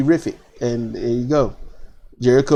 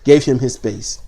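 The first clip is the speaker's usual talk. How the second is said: sheepish realization under the breath; mock regretful mutter; 5 semitones lower than usual. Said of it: "probably be like".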